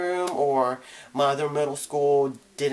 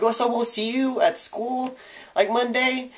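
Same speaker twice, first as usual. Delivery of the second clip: imitating a friend; 9 semitones higher than usual. Imitating friend asking in car.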